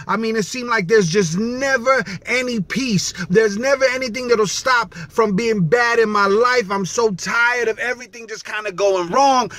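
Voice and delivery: upset daughter. Retold or imitated. Upset daughter venting to her dad, mildly distraught. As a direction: plead like a daughter at wit's end, lightly acted. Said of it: "she was upset. I mean, crying".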